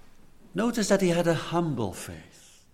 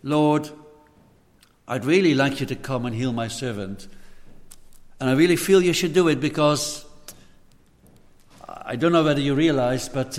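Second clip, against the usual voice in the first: louder, fast self-promoting brag; boastful mock centurion; 3 dB louder than usual. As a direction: show off your good deeds. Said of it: "He never said".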